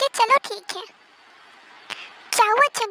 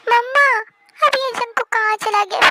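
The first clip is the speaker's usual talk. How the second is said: whiny call. Acted. Waking up, calling for a singer.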